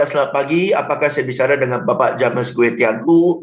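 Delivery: flat, stiff, by-the-book call opener; stiff formal script. Shown as a demonstration. Cold caller reading the full name, flat and stiff. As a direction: read it like a bored call-centre script.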